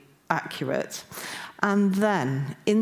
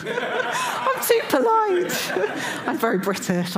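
high squeal of laughter through the words; laughing; 3 dB louder, slower than usual. Real, not acted. Admitting she put the please in, laughing. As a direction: laugh while owning up, voice leaping up.

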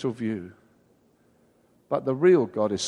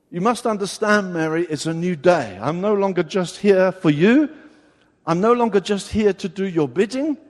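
firm Jesus; 5 dB louder than usual. Retold or imitated. Jesus voiced firmly to Mary.

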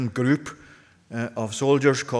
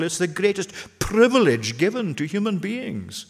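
preaching louder; 6 semitones higher, 4 dB louder than usual. Real, not acted. Preacher rising again.

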